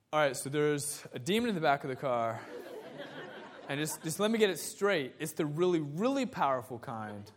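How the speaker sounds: chuckling through an incredulous retold reply; a laugh under each phrase. Real, not acted. Pastor laughing while retelling his reply to the demon claim.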